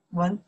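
文 in second tone, rising. Shown as a demonstration. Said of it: "second one".

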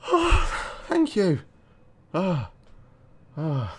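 very high, loud triumphant screams; ecstatic yelling. Real, not acted. Player beats the boss, very high loud ecstatic yelling. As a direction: shriek with victory joy.

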